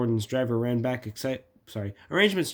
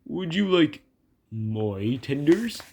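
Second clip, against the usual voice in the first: high start, slow rising offer; innocent; 3 semitones higher, 3 dB louder, slower than usual. Acted. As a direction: draw out the question guilelessly. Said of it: "asked Duck innocently".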